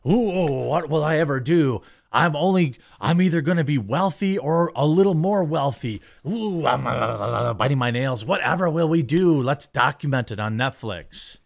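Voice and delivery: sarcastic mock worry, over the top; mock whiny rich couple. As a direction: lampoon spoiled royals wringing their hands. Mocking the rich couple's complaints.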